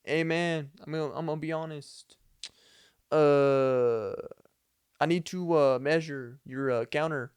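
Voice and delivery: committing to a clumsy Hispanic accent impression. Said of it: "Didn't do the best Hispanic accent ever".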